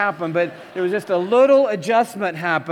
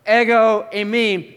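powerful declaration; 3 semitones higher, 4 dB louder, slower than usual. Pretend. Jesus speaks out powerfully.

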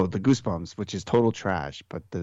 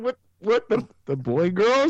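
confused surprise; 10 semitones higher, 3 dB louder than usual. Retold or imitated. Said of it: "I was like".

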